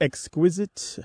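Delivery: exQUISite, second syllable punched; stress on second syllable. Shown as a demonstration. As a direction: hit QUIS in exquisite. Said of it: "that stress on the pronunciation to the second syllable".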